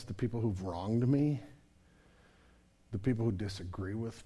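low, very soft, intimate preaching. Acted. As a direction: draw them in quietly. Soft reflective sermon close.

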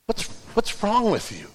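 quiet, needling accusation; a hint of a sneering accuser, softly; accusing serpent voice. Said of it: "The voice of the serpent says".

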